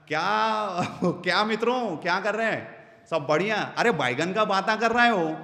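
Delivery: lightly voiced chatty greeting; playful tonality demo. Shown as a demonstration. Speaker demos engaging tonality, lightly playful greeting. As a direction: greet the friends with a sing-song tone. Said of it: "तो ये tonality बहुत ज़रूरी है".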